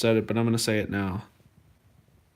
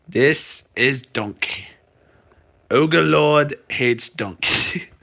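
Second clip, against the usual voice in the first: slow, drawn-out ogre impression, louder toward the end; Shrek; 4 dB louder, much slower than usual. Streamer reads a viewer's poem, trying a Shrek voice. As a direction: try for a big, slow ogre voice. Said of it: "I tried to sound like Shrek".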